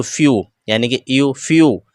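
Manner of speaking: फ्यू ending in a clear यू glide; ew as "yoo". Shown as a demonstration. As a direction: show the "yoo" sound in फ्यू. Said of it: "ई डब्ल्यू यू पढ़ा जाता है".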